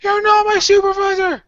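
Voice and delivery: whiny. Acted. Mock whiny protest.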